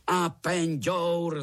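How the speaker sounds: A penďour bellowed high and loud, dragged out slowly; roared in chorus. A narrator's reading. Uncles roar the answer at Minka together, loud and slow. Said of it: "zařvali všichni strýčci sborem".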